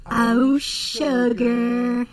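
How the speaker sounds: put-on loud, drawn-out Southern belle accent; sugary Southern drawl; country accent. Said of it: "sweet country accent".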